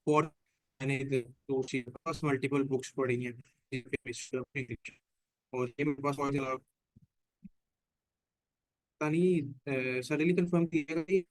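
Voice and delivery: breaking up, choppy audio; bad connection. Real, not acted. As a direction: voice cutting in and out. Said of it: "आपकी आवाज cut रही है, बार बार break होके आ रही है". (कटती हुई आवाज़)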